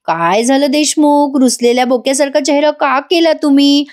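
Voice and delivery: teasing coaxing. Retold or imitated. Wife asking sulking husband what happened, teasing and coaxing. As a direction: coax playfully, stretching his name.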